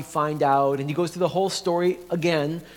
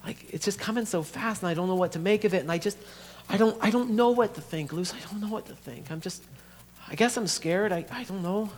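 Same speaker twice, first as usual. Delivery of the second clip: higher, faltering, overwhelmed voice; admitting fear; 5 semitones higher than usual. Acted. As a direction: stumble through it, at a loss. Dominic admits fear to sister.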